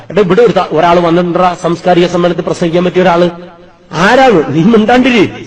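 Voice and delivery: put-on older brother calming the panicking organiser; excited urging. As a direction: hush the worried brother eagerly.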